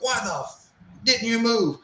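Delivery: high yell, swear bitten off; drill instructor yell with swear. Retold or imitated. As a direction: start the swear, cut it off. First take, cut off by self-edit.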